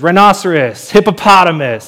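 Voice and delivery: mock-proud Adam naming the animals; cocky naming. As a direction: announce each name like a cocky first man. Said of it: "man's kinda cocky in the beginning".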